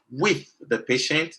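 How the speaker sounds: with said slow and rising; emphasize with, slowly; stress on with. Shown as a demonstration. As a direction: lean on the word with, drawn out. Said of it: "I emphasize that word".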